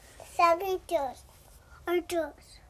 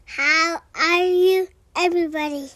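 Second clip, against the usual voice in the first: loud greeting; 6 dB louder than usual. Real, not acted. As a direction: call it out to the audience. Child greets podcast listeners loudly.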